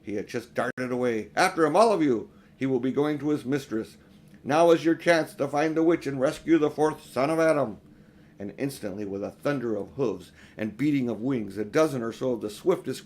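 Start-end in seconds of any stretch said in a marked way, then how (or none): 1.4-7.8 commanding call. Acted. Aslan orders the chase.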